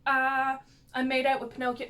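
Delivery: a playful retold panic; mock freak-out. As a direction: ham up the shocked gasp. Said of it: "she freaks out".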